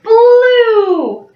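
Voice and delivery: eager answer call; excited call. Acted. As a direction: call it out for the kids. Calling out answer for class.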